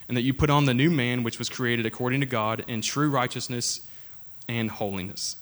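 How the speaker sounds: measured, formal Bible reading; scripture reading. Acted. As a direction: read the passage with steady weight. Reads Ephesians aloud.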